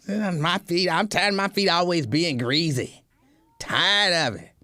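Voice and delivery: lightly put-on voice of a griping partner; complaining partner. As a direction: imitate your partner grumbling, a bit exaggerated. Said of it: "I don't know why I'm making that voice".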